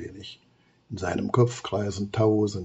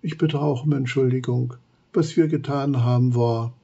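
sobbing; 3 semitones higher, 3 dB louder than usual. Acted. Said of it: "sagt schluchzend".

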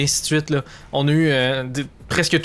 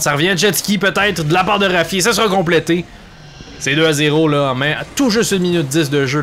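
excited sports commentary; 3 semitones higher than usual. Real, not acted. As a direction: ride the goal with rising excitement. Second goal in play-by-play.

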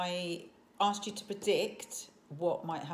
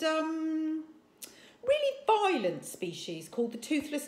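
put-on high, loud, eager boy voice; eager bluffing boy; 5 semitones higher, 6 dB louder than usual. A narrator's reading. Fishlegs rescues Hiccup by bluffing the chief: high eager. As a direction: bluff with confident enthusiasm.

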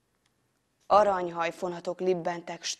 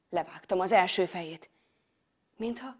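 usual speaking voice

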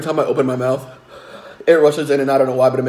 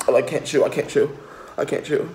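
lower, softer, fading out each time; real pain, growing softer; fading pained mumble; 3 semitones lower, 9 dB quieter than usual. Real, not acted. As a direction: trail off, worn down by the burn. Mouth burning, can't chew.

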